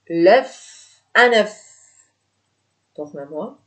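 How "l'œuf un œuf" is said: L'œuf said louder and clearer, each sound crisp; clear emphatic model. Shown as a demonstration. Teacher to students, repeating the word louder for them to copy. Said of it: "teacher repeats the word louder".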